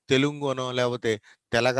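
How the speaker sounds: తెలుగు bent to "telungu", then తెలగ as "te-la-ga"; wrong pronunciations. Shown as a demonstration. Teacher showing impossible readings of Telugu, deliberate mispronunciation. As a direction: misread it as telungu, then telaga. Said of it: "ఇట్లా పలకడానికి అవకాశం లేదు".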